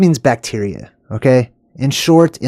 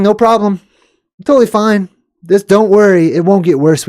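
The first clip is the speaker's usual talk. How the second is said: mock Australian accent; 6 semitones higher than usual. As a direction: ham up a reassuring Australian accent. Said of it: "I love Australian accents".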